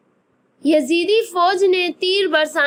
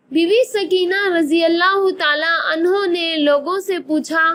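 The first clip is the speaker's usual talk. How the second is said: narrating through a real sob; catch of a sob. Real, not acted. Narrator retelling Sakina's search, a brief real sob. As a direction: let a brief sob break into the words.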